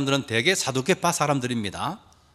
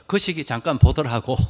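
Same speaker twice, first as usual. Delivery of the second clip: lightly imitated Jeolla accent; a hint of Jeolla speech; Jeolla dialect. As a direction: quote it with a slight Jeolla lilt. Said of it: "전라도 사람들은 뭐라고".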